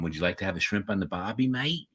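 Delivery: lightly put-on Australian accent, quick and soft; Aussie impersonation. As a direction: toss off a hint of Aussie, lifting at the end. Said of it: "we're teaching Kenny to, to add to it".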